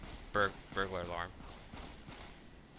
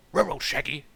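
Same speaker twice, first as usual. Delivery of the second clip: higher, louder cartoon dog voice; Scooby-Doo; 5 semitones higher, 5 dB louder than usual. Streamer mocking their own railroad, cartoon dog impression. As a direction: call out like a talking dog. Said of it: "I talk like Scooby-Doo".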